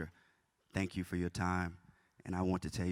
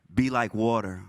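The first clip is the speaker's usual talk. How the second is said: louder call; 3 semitones higher, 8 dB louder, slower than usual. Shown as a demonstration. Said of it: "I want to hear y'all one more time".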